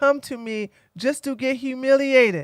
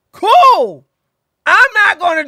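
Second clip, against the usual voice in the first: high, loud, breezy Cool; a chirpy dismissive cool; sarcastic cool; 7 semitones higher, 8 dB louder than usual. Acted. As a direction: toss off a bright mock-casual cool. Sarcastic reply to whites only.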